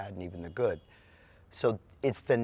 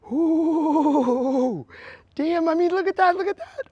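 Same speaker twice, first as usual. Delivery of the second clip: high, loud, thrilled exclaiming; amazed; 14 dB louder, slower than usual. Real, not acted. Performer amazed at his sold-out crowd, loud and high. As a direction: gasp out loud at the packed crowd.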